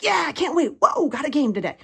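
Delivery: high, bouncy imitation; mock enthusiasm. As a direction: parody the always-hyped athlete. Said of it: "they're not always like".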